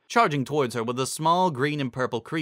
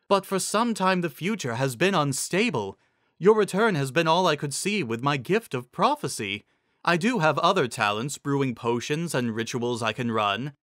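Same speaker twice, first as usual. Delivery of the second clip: rhyming Zecora; 3 semitones higher than usual. Acted. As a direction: plead with the queen in rhyme.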